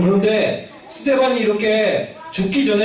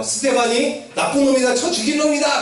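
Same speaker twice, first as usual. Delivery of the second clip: higher-pitched, acted accusation at no extra volume; false accusers; 5 semitones higher than usual. False witness denouncing Stephen to the court, acted accusation. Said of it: "막 이런 식으로 막 얘기를".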